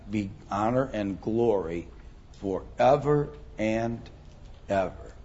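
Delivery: measured Bible recitation, falling away at the close; scripture reading. Real, not acted. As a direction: read it out phrase by phrase, letting each title stand alone. Reads a scripture verse aloud.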